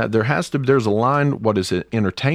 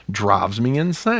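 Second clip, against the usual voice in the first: passionate; 2 semitones higher, slower than usual. Real, not acted. Podcaster venting about a song, passionate. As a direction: let real passion lift the voice. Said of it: "but he's passionate".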